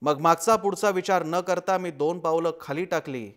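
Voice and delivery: measured, suspenseful storytelling with weighty pauses; dramatic horror narration. A narrator's reading. Reader sharing a horror story for Marathi Language Day, suspenseful narration.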